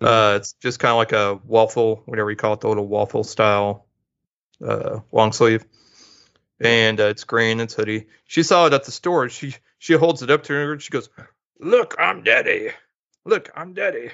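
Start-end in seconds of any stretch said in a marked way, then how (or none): 11.6-14.1 very high, slow, drawn-out teasing voice. Father retelling his daughter holding up a hoodie, daughter imitating her dad. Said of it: "Do I really sound like that?".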